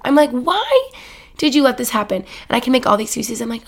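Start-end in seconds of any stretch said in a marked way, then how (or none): 0.3-2.2 higher exasperated why; a touch of mock anger at yourself; self-scolding. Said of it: "I was so mad at myself".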